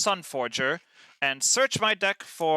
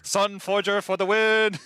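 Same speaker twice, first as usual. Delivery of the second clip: triumphant cheer; 5 semitones higher, 4 dB louder, slower than usual. Real, not acted. Victory cheer.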